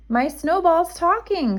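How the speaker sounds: high startled squeak. A narrator's reading. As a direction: squeak it out in surprise. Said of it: "squeaked Little Bear".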